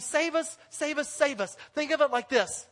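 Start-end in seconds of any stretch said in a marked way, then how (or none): 0.0-1.6 higher, raised crowd cry of Save us; proclaiming crowd. Retold or imitated. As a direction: cry out to the Messiah. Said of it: "they have proclaimed".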